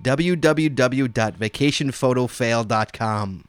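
slow and clear, word by word; slow dictation. Shown as a demonstration. Host giving listeners the web address, dictated slowly. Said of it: "write this down, guys".

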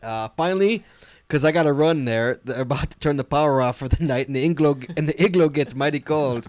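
mild put-on Canadian accent, a bit hammy. Reading a Canadian listener's email to cohost, mock Canadian accent. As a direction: read the email like a joking Canadian. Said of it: "your Canadian accent's worse than mine".

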